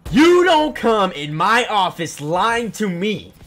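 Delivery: loud, high, drawn-out angry imitation; retold yelling principal. Principal scolding a student in his office, retold loud yell. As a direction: yell it like a furious principal, slightly held back. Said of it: "he says in his loudest voice".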